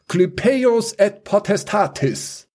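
slow, high, ringing chant of a shield spell; spell incantation. Acted. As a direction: intone the magic words. Luca casts a shield spell.

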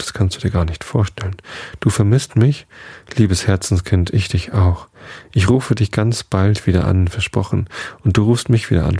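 a hint of a gushing singer mother on the phone; light, doting diva mother, barely shifted from the narrator; mother chattering sweetly to her daughter on the phone, lightly voiced; lightly voiced Mom. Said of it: "ist sofort zur Mom geworden".

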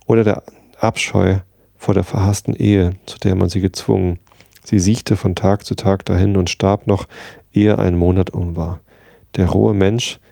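steady, measured story reading; audiobook narration. A narrator's reading. Radio host reading Sherlock Holmes aloud, calm narration. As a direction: read the chapter to listeners with eyes closed.

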